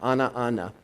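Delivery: ana, ana as two separate words; Aramaic demo. Shown as a demonstration. Teacher showing the doubled word ana. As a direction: say ana twice with a break between. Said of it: "looks like this".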